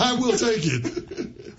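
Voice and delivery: slow, quiet, laughing. Real, not acted. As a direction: savor it through a laugh. Laughing agreement.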